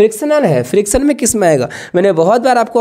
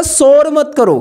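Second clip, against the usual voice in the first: higher, a mild mock scold; mock teacher shout; 6 semitones higher, slower than usual. Teacher walks in on a noisy class, mild mock scold. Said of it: "तो जब teacher बाहर से अंदर आता था तो बोलता था".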